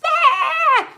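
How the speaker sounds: loud, very high imitated wail; mocking cry. Imitating the woman who cried on the trail, mocking high wail. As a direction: mimic a crybaby with a piercing "ah". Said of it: "she cried like a bitch".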